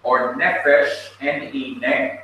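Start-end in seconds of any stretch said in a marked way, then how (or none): 0.4-1.1 "Nefesh" as NEH-fesh; "Nefesh" with a light final syllable; stress on first syllable. Shown as a demonstration. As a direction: put the weight on the Neh of "Nefesh". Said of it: "has the accent mark".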